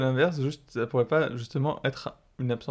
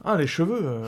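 demon voice; 2 semitones higher than usual. Retold or imitated. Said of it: "avec une grosse voix de démon des enfers".

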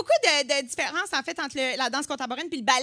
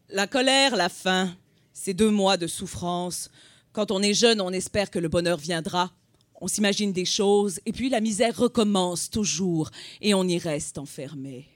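grand tragic stage delivery; 7 semitones lower than usual. Acted. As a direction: declaim it like a tragic actor on stage. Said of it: "un extrait que je vais vous déclamer".

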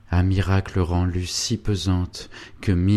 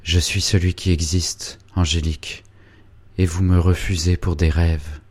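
put-on a young man pressing his love, a touch louder; ardent young lover; 4 dB louder than usual. Félicien pleading with Angélique, ardent and insistent. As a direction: insist passionately that he is real.

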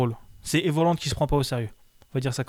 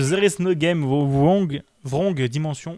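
put-on game title in a light English accent; much slower than usual. Cohost names the game with a lightly English accent. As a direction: says Wrong Dimension the English way. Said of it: "Oui, j'ai un accent anglais".

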